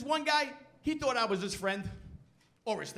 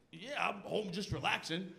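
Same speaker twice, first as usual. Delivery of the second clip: low, slow fake sick voice; a weak pretend-ill reply; faking being sick; 5 semitones lower, 4 dB quieter than usual. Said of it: "Sick voice".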